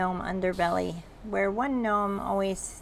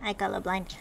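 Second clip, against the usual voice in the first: gnome mechanic; 2 semitones higher, 4 dB louder, faster than usual. Acted. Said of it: "he's like".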